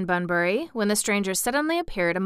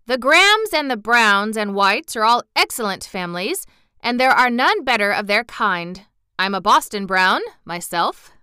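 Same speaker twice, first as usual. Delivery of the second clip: lightly voiced indignant citizen, louder; proud townsperson, objecting; 2 semitones higher, 6 dB louder than usual. Bread man defending other families, mildly indignant. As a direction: stand up for the family name.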